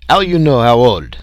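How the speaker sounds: put-on loud, frantic French-accented question. A narrator's reading. Frenchman questioning the creature's age, frantic. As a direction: burst out with it, demanding proof. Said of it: "Leroy was frantic".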